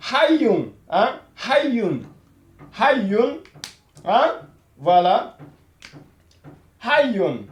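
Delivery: hayyun with the y doubled, hay-yun; teacher modelling hayyun with a doubled y; doubled y demo. Shown as a demonstration. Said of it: "qu'on ait l'impression que le ya est répété deux fois".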